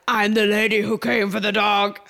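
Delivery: emphatic self-announcement at the door; mock announcement. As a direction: declare it like a title, retold. Announces herself to bouncer.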